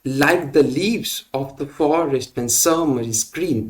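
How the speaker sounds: very slow, two light syllables then a heavy one; scanned verse, slowly; anapestic reading. Shown as a demonstration. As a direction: tap out da-da-DUM four times. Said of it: "unstressed के बाद stressed".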